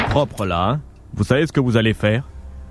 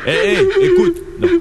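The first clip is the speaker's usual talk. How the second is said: urgent call. Acted. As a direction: snap her out of her crying. Man calling to the crying girl.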